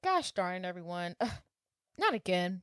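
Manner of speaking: soft, weary mock grumble; muttered exasperation. Boyfriend surveying his trashed house, muttered mock exasperation. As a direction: grumble it quietly, mock fed up.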